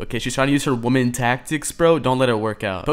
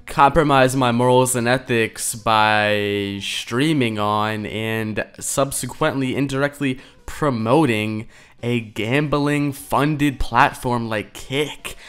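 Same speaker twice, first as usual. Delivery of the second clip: mocking imitation; slower than usual. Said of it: "you gotta love that, the little".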